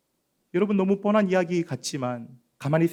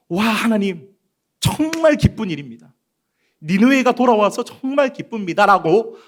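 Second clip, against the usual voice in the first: a little higher, pretend delight; mock joyful Jonah; 4 semitones higher, 4 dB louder than usual. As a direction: play the glad prophet Jonah would not be. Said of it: "말한 것이 아니라".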